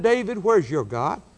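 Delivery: mocking heathen.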